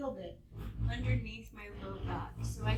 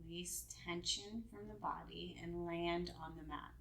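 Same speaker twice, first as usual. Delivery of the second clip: calm, unhurried meditation guidance; guided meditation; 3 semitones lower than usual. Real, not acted. Yoga teacher settling students onto their props, guided meditation voice. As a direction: ease them gently down into rest, leaving space between phrases.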